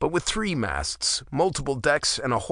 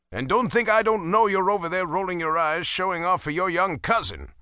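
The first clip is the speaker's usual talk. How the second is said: lightly higher, dryly scolding; a hint of a knowing father; 6 semitones higher than usual. Father scolds son rolling eyes, dry. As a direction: catch him out, mildly.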